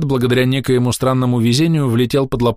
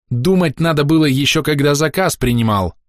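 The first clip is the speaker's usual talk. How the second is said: angry cut-off; 6 semitones higher than usual. A narrator's reading. Shleyla snapping at Andrey over the contract, angry. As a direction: cut him off angrily. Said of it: "зло оборвала его Бродница".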